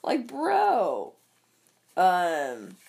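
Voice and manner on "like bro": breathy disbelieving whisper; whispered aside. Real, not acted. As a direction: drop to a whisper, like you can't believe it. Disbelieving aside about Trump.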